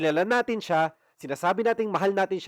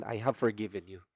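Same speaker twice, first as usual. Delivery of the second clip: voice of the Lord; 6 semitones lower, 4 dB quieter than usual. Retold or imitated. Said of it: "sinabi niya sa akin".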